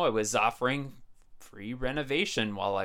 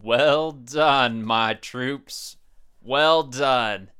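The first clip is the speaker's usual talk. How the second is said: put-on old prospector; 7 dB louder, much slower than usual. Grandpa praises the boys.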